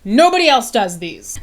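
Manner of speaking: lightly voiced mock fitness instructor; joking trainer voice, half-serious; playful fake trainer. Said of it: "I'm just screwing around now".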